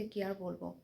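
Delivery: talking softly. Real, not acted. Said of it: "তাই আস্তে আস্তে কথা বলছি". (ঘুমন্ত বাচ্চাদের জন্য আস্তে আস্তে বলা)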